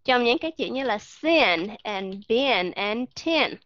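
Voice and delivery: "sin", "been", "tin" said slowly with a short clipped i; short I words. Shown as a demonstration. Teacher modelling short I words, slowly. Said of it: "short I sound thì các bạn nghe nó giống như là".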